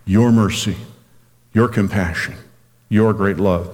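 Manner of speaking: "your" stressed at the head of each short phrase; emphatic "your", phrase by phrase. Shown as a demonstration. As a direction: lean on "your" each time, pausing between phrases. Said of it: "Emphasis on the word your".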